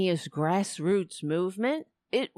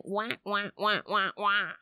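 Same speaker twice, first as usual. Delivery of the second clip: Charlie Brown teacher wah wah. Retold or imitated. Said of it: "like Charlie Brown at class saying".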